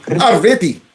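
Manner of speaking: "Already" as "avrety" in mock Indian accent; mimicked Indian accent. Host echoing congressman's "Already", mock Indian accent. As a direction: say "Already" with a v-sound and hard t, imitating an Indian accent. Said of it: "he was trying to say already".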